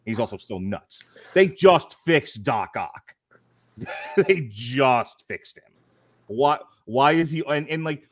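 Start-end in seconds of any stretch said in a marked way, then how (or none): 1.3-5.6 "They just fixed Doc Ock" said slowly, each word pressed; slow, deliberate emphasis on a plot hole; slow emphatic point. Real, not acted. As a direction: lay it out word by word, slow and heavy. Hammering home a plot point.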